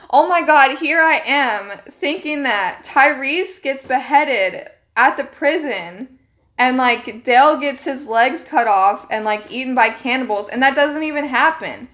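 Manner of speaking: mild mock excitement while trolling; fake gushing fan. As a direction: ham up the clueless fan. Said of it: "I'm gonna troll".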